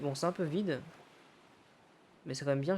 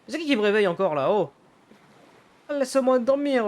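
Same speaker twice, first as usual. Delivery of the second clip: higher, louder groggy complaint; grumpy sleeper; 5 semitones higher, 5 dB louder than usual. Acted. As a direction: whine like someone yanked out of sleep. Voiced sleeper woken up in game. (dormeur grognon, plus aigu et plus fort)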